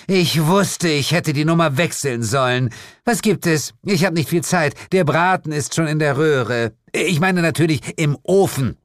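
high, irritated witch queen; harried demon mother. Acted. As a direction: complain like a busy matriarch who was disturbed.

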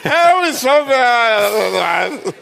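put-on high, slow Turkish-accented butler; Dinner for One butler with Turkish accent. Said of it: "Dinner for One auf Türkisch".

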